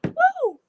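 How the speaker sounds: high loud whoop of relief. Real, not acted. Whooping in relief after the quilt scare. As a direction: let out a joyful whoop.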